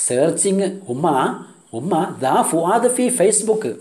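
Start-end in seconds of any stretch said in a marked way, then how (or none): 2.2-3.8 slow line lifted higher, no hush; repeated higher. Shown as a demonstration. Teacher repeating the sister's line for the class, higher and slow. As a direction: spell it out slowly with a raised pitch. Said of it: "പതുക്കെ അവൾ പറയുന്നു".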